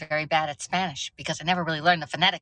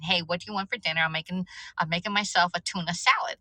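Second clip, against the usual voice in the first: retold question.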